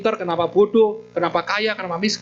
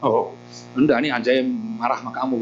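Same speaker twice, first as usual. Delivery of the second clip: a lightly lowered mock dog voice; dog's voice; 6 semitones lower than usual. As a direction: grumble it as the barking dog. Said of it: "gitu ya". (suara anjing yang agak rendah)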